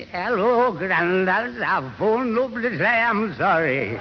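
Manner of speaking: put-on a slow, halting go at a toothless old man. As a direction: try a gummy old voice, slowly and carefully. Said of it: "I said Tommy Twig, not his goat".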